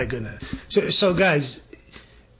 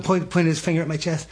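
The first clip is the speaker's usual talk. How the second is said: ordinary talk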